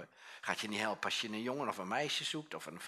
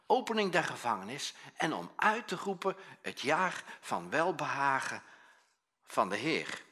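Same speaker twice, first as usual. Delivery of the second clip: slightly louder, solemn reading of Isaiah; solemn scripture reading; 2 semitones higher, 4 dB louder than usual. Acted. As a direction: proclaim the verses, a bit louder. Jesus reads scripture aloud.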